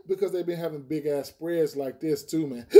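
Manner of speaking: talking through hiccups; hiccuping. Real, not acted. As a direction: hiccup catches the breath mid-line. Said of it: "I'm hiccuping and shit".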